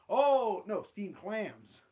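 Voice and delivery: hastily fix the slip; Skinner correcting. Acted. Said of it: "Steamed Ham script".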